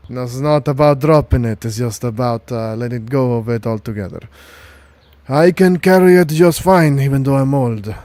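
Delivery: put-on gruff old soldier. GM voicing Sergeant Lucas.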